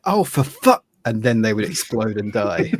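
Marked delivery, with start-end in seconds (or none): 0.0-0.8 high, loud outburst of dismay; imitated frustrated cursing. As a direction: curse like a doomed player. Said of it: "you could just hear".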